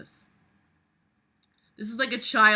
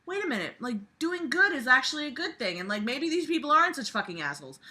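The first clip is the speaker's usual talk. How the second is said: mock epiphany; 7 semitones higher, faster than usual. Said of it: "he's like".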